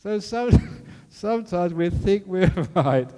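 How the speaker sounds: high, loud, laughter-broken speech; real leftover giggles in the words; laughing while talking. Real, not acted. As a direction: try to resume while still laughing. Still laughing after own joke.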